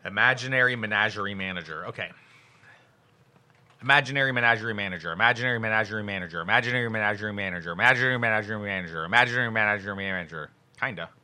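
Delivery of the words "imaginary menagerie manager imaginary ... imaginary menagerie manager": rattled off quickly; quick repeated tongue twister; fast tongue twister. Shown as a demonstration. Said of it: "tongue twisters".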